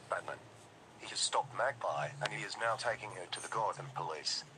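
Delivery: official emergency broadcast read; dystopian announcer. Acted. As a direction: deliver it like a state alert.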